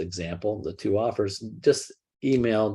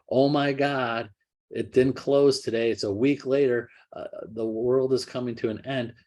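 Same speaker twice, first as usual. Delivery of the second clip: mock panicked seller; 3 semitones higher than usual. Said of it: "or a seller".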